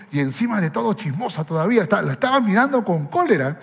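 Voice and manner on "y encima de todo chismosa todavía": mock angry thought. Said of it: "mirando con cólera como diciendo".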